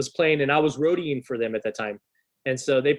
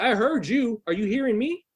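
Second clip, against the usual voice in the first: higher-pitched indignant mock rant at the guard; indignant teen snapping at security, pitched up; retold angry outburst; 8 semitones higher than usual. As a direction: replay your teenage fury at the bouncer, pitched up. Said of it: "So I'm starting to get irate".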